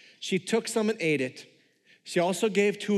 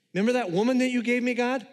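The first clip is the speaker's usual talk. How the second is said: higher, fast, defensive excuse; a guilty man talking his way out of it; whiny Adam; 6 semitones higher, faster than usual. Retold or imitated. Adam blaming God, voiced.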